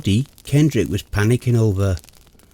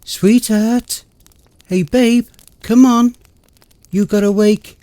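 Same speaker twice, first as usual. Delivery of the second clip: urgent waking; 9 semitones higher, 4 dB louder than usual. Acted.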